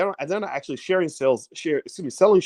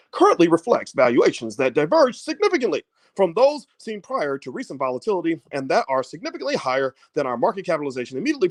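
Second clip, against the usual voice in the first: stiff corporate reading voice; white man voice. Pretend. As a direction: read it like a buttoned-up executive. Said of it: "let me do my best white man voice".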